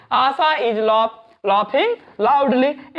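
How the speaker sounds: very slow, stretched "laughing"; slow dictation. Shown as a demonstration. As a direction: drag the sentence out for learners to copy. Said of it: "practice daily daily करते रहो".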